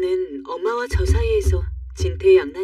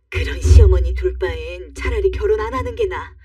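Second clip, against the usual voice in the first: acted indignant rant, only mildly raised; angry mother. Mother rants to her daughter about the in-law, mildly angry. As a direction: vent your grievance as a cross mother. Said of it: "버럭버럭 소리를 지르더라고요".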